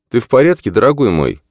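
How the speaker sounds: a mother's question, lifted high; concerned mother. A narrator's reading.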